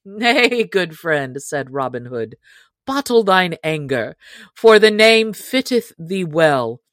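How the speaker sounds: a hint of a merry outlaw leader inviting him in; booming, good-humoured welcome, lightly played; lightly voiced hearty outlaw chief. Robin voiced in story.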